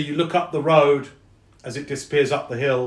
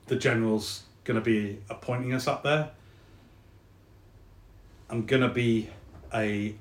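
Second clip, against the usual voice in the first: Jake, hesitant soldier; 3 dB quieter than usual. Acted. Soldier friend explains he is staying behind, hesitant and subdued. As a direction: softly break the news, with halting pauses.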